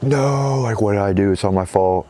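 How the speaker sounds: starts high in distress and sinks back; hammed-up guilty wail; mock despair. Man blaming himself for the fall, mock anguished wail. Adam despairs over his failure.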